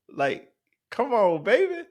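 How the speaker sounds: slow, high whine climbing into falsetto; mock disbelief. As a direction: stretch it out like a pleading joke. Fearing a robbery at the gas station.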